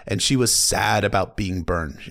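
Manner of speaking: ordinary delivery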